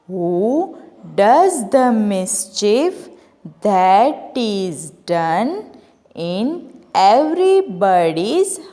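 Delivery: slow, measured recitation of a poem; slow poem reading. Shown as a demonstration. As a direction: read each line slowly, like a teacher. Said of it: "First, I will read this poem". (धीमे से कविता पढ़ना)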